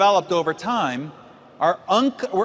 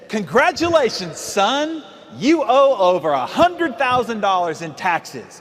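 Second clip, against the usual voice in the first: a light put-on older accountant voice, slowed on the bad news; lightly voiced accountant delivering a grim verdict; accountant's verdict; 2 semitones higher, 3 dB louder, slower than usual. Accountant telling young client he owes taxes, lightly voiced slow announcement. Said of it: "he says".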